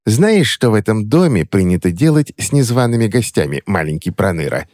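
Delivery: put-on sly old hag hissing at an intruder; old witch voice. Crone threatening the intruding boy, mildly menacing.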